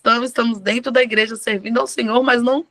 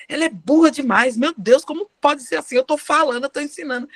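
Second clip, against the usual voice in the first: retold exasperation, pitch rising a little; mildly fed-up complaint, acted out; exasperated; 3 semitones higher than usual. Retells her exasperated complaints. (desabafo exasperado, imitado)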